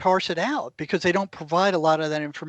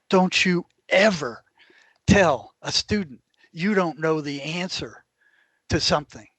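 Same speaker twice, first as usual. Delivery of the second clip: stern professor. Retold or imitated. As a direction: scold him slowly, word by word. Stern professor scolds a student.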